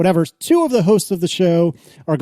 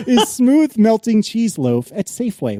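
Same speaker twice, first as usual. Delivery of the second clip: slow, higher retry at a straight reading; barely straight face; 5 semitones higher, 3 dB louder than usual. Real, not acted. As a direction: read it deliberately, holding back laughter. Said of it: "couldn't even say it with a straight face".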